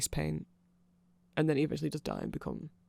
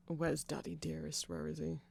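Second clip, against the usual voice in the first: sarcastic; 6 dB quieter than usual. Acted. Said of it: "I say that very sarcastically".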